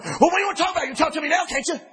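mock the pushy one who won't wait; a lightly hammed-up impatient challenge; pushy retort. Voicing the pushy argumentative reply.

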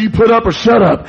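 bully barking the dare back; mock bully shout. Bully answering the little boy's challenge, mock shout. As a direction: throw it back as a shouted taunt.

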